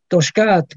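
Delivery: "Toshkat" with the stress on the final syllable, tosh-KAT; stress on last syllable. Shown as a demonstration. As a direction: land the weight on the end of "Toshkat". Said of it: "el acento en la última sílaba".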